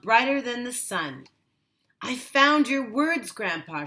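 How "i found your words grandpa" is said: louder, higher, bursting with pride; excited child. A narrator's reading. Granddaughter proudly telling grandpa she found his words. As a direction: announce it like big news. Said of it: "she said".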